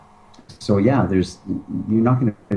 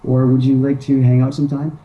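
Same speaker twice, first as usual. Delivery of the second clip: higher, unsure, every line a timid question; hesitant asking; 4 semitones higher than usual. Shown as a demonstration. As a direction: ask like a guy afraid of a no. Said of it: "the whole thing we're saying is".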